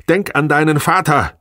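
high, loud threatening yell. A narrator's reading. Wife cutting husband off with a threat, yelling. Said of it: "schrie sie".

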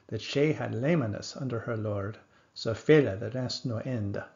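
put-on old vowels and rolled stresses, "brocht" and "nocht" with a throaty ch, four-stress rhythm; Middle English reading. Shown as a demonstration. Lecturer demonstrates the tail-rhyme stanza for students. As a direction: recite the stanza in reconstructed Middle English with a steady beat. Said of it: "So it sounds probably something like this".

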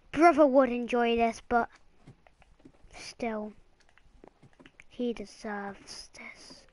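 low, slowing, fading pretend sadness; mock solemn. Child roleplaying with dad over cake, mock solemn and fading. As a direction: play it like a touching farewell. Acting out a sad roleplay scene.

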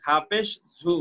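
"ঝু" with a buzzing z at the start; buzzing consonant. Shown as a demonstration. Teacher showing proper articulation, "ঝু" buzzed. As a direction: spell "ঝা পেশ", then buzz "ঝু". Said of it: "ঝিঝি আওয়াজে উচ্চারণটা".

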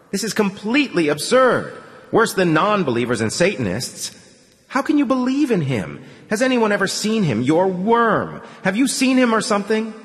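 high, scornful mocking questions; mock his belief; sarcastic. A narrator's reading. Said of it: "Artyom tried for sarcasm".

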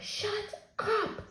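a hushed, voiceless shut up; whisper. Acted. Boy in bed hushing his babbling brother, whispered. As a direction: whisper it so nobody wakes. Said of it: "I whispered".

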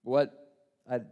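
loud startled what; shocked. Acted. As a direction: jolt of disbelief.

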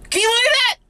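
high, thrilled exclamation; amazed. Real, not acted. Railfan showing viewers the train, amazed. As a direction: gasp it out, amazed.

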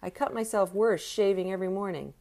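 high, loud jeering shout from the crowd; heckling a beaten boxer, loud jeer; heckler's yell. A narrator's reading. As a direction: yell it through cupped hands.

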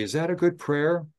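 lightly voiced kind invitation to pray; gentle invitation. Chaplain gently asks residents to pray along, lifted voice. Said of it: "I will look at the residents and I will say".

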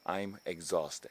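I'm exhausted dragged out very slowly; worn out, stretching it slow; drawn-out exhausted. Shown as a demonstration. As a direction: sag into I'm exhausted, stretching every syllable. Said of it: "すげえ疲れてる時は".

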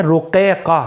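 رقیقہ with both Qafs from the throat; رقیقہ with two back Qs; two deep Qafs. Shown as a demonstration. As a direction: say رقیقہ "ru-qay-qa", deep Q twice. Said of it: "دونوں بڑے قاف ہیں".

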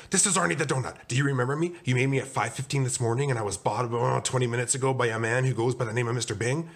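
high, urgent phone plea; mildly panicked explaining; frantic. Acted. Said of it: "Arnie frantically whispered".

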